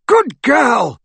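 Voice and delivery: high, loud shout of approval; booming cheer at full voice; roared. A narrator's reading. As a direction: roar it out while charging up. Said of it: "roared a figure running".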